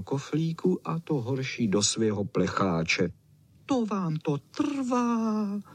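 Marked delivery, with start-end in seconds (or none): 3.7-5.6 a lightly growled, high and very slow complaint; growling. A narrator's reading. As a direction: drag it out like a grumpy little dog. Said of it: "vrčel Č".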